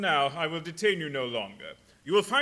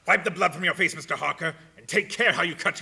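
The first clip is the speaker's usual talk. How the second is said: loud, tight warning; the count ordering his guest to wipe away the blood; sharp command; 5 dB louder than usual. Acted. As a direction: snap the order at him.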